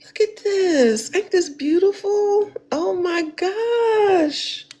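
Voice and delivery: slow, high, near tears; overcome, voice about to break; slow tearful awe at a gift; about to cry. Real, not acted. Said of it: "I'm about to cry".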